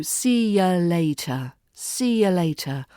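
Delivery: "see ya later" with a weak schwa in "ya"; words run together. Shown as a demonstration. Teacher coaches learners, "see ya later" run together as one unit. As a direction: run the syllables of "see ya later" into each other. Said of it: "Run the words and the syllables into each other".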